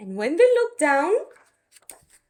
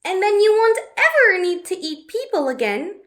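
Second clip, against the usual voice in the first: put-on higher, brisk girl's voice; Betty's voice; 4 semitones higher, 3 dB louder than usual. Betty promising the dragon a spell, eager and higher. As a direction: talk quickly and eagerly, pitched up. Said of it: "said Betty".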